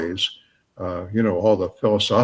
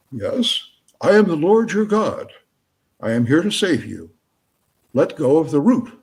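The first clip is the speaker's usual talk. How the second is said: booming voice; 5 semitones higher than usual. Acted. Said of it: "a booming voice says".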